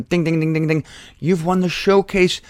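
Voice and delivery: booming game show host voice; booming prize announcer. Pretend.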